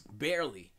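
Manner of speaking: ordinary talk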